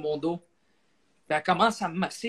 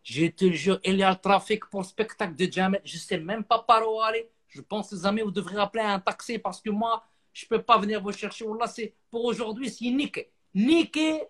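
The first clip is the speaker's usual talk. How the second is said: driver on phone; 4 semitones higher than usual. Retold or imitated. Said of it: "il dit".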